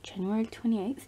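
soft whispered reminder of the date; whispered repeat. Real, not acted.

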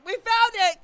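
mock triumphant shout of discovery; excited cry. Gamer imitating players cheering over a find. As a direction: cheer like you just found treasure. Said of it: "be like".

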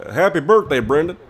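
switching impression voices; Obama voice. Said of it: "Say happy birthday in Obama".

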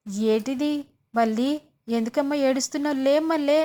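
urging a crying daughter to get up; pleading mother. Retold or imitated. Mother begging her weeping daughter to rise, loud pleading.

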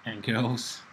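slow, loud stretched-out hype call; loud drawn-out greeting. Acted. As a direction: belt out the greeting slowly. Vlog intro greeting to viewers.

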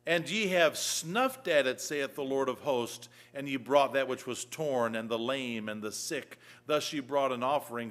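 measured pulpit reading of the King James text; scripture reading. Acted. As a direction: proclaim the verses like the Lord speaking.

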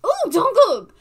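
high shrieking squeal of delight; fangirl squeal. Real, not acted. Fan shrieking at her quiz result, ecstatic squeal. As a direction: scream his name like a thrilled fan.

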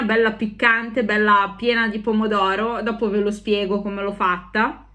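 muffled behind lace mask; speaking through a face mask. Real, not acted. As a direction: mask over mouth while talking. Seen 3: Ornate skull mask covers the face and mouth throughout; R frames are maskless.

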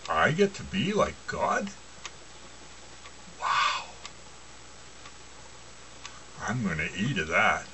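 dreamy inner voice. Retold or imitated. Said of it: "good old emotion is sitting there thinking".

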